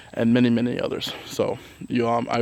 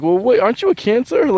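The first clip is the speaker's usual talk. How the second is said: 1 puzzled; 10 semitones higher, 5 dB louder than usual. Retold or imitated. Confused by Gemini moon.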